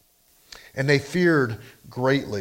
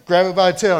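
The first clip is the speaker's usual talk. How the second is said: louder, bolder command; louder commanding repeat; 3 semitones higher, 6 dB louder, faster than usual. Acted. Preacher repeating God's command to Moses more loudly. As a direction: press the order home with more force. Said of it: "faith, right?".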